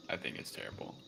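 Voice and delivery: whispered, flat dismissal; whispered verdict. Real, not acted. Whispering a harsh verdict on the movie. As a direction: breathe it out like a secret.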